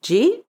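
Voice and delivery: "Did you eat" cut down to 'jeet', high rising question; extreme compression. Shown as a demonstration. Teacher showing the shortest form, 'jeet?' for Did you eat. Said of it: "Or even".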